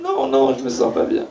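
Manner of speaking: whiny complaining disciple. Acted. Disciple complains feeling unwell.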